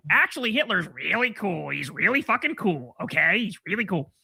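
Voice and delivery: put-on edgy young guy. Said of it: "the edgy young guy saying".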